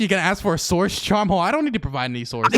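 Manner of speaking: grinning while talking; smiling. Real, not acted. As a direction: tease with a smile in the voice. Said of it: "I can hear your smile".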